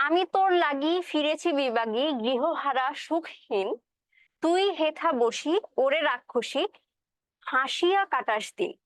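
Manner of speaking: slow, measured verse reading; slow poem recital. Acted. Teacher reciting the poem slowly to the class. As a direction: draw out each line like a recitation.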